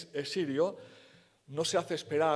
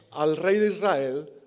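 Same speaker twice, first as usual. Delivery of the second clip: tail of the king's rage; 6 dB louder, slower than usual. Retold or imitated.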